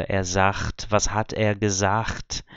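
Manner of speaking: "sagt" and "gesagt" with ch for the final g; regional sagt. Shown as a demonstration. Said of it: "isso eu ouvi algumas vezes".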